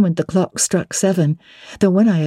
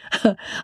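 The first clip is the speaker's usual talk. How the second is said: soft chuckle; 6 dB quieter than usual. A narrator's reading. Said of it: "I laughed in my sleeve".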